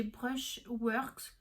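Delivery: slow, French-accented English brand name; clumsy French accent. Real, not acted. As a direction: attempt "Brushworks" slowly in a French accent. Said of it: "excusez-moi pour mon accent merdique".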